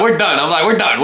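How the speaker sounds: put-on ending the visit with a girl he barely knows, loud; retold firm dismissal. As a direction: shut it down flat out. Cutting off the girl.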